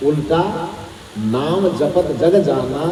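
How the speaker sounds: "उल्टा", pause, then slow "नाम जपत जग जाना"; pause after उल्टा. Shown as a demonstration. Teacher demonstrating the comma in the verse, pause after "उल्टा". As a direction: stop after "उल्टा", recite the rest slowly. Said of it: "उल्टा के बाद अल्प विराम".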